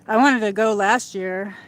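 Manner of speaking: breathless from walking; panting between words; out of breath. Real, not acted. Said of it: "I'm out of breath".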